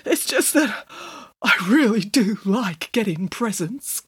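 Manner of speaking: teary. A narrator's reading. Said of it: "struggling to control his tears".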